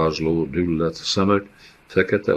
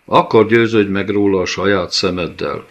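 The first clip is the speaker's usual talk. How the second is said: louder sharp retort; snapping; 3 semitones higher, 5 dB louder than usual. Acted. The rabbi snapping back at the doubting nomad, angry. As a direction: snap back at him in anger. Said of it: "csattant fel a rabai".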